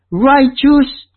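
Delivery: ordinary delivery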